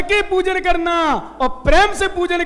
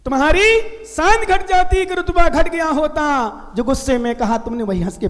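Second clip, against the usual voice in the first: couplet repeated lightly. Shown as a demonstration. Monk repeating the doha for his listeners, quick and trailing off. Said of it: "क्या?".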